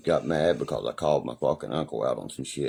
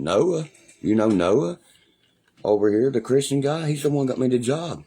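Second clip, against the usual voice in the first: excited shout-out; 7 semitones higher, 7 dB louder than usual. Real, not acted. Calling out to a viewer.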